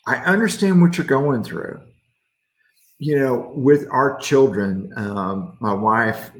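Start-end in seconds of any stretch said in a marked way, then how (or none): 0.1-1.8 gentle reassurance. Acted. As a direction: comfort him gently. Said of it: "gentle whisper".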